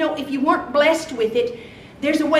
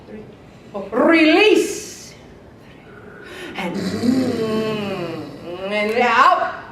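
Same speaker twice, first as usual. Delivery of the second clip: breathing coach; 3 semitones lower, much slower than usual. Shown as a demonstration. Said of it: "Take deep breaths".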